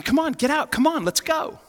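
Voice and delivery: high-pitched retold yell for a fight; angry challenge. Retelling himself daring the men to fight, angry challenge. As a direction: goad them out of the truck, voice way up.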